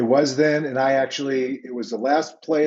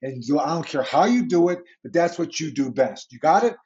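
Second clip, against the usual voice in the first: pumped-up coach pep talk; 3 semitones higher than usual. Retold or imitated. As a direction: fire up your linebacker, no blitz rules. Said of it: "I go".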